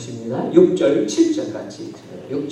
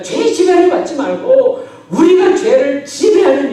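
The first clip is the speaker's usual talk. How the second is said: loud, high, ringing exhortation; rally the congregation at the top of your voice; full-force preaching; 11 semitones higher, 11 dB louder than usual. Real, not acted. Preacher exhorting beloved church members, full-force preaching.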